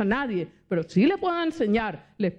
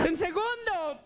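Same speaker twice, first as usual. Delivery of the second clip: laughing; 6 semitones higher, 4 dB quieter than usual. Real, not acted. Laughing at her own joke.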